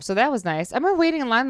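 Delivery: ordinary talk, nothing marked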